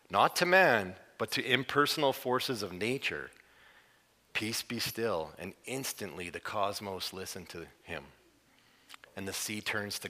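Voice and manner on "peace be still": calm command. Retold or imitated. Jesus commanding the forces of nature, softly and slowly. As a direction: hush the storm gently and slowly. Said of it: "issues a verbal command".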